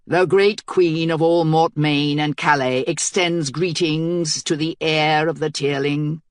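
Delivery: slow formal herald's proclamation; a herald hailing the enemy queen from the walls; thick bass herald. Acted. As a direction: announce it slowly, like a royal herald. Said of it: "his voice was a thick bass".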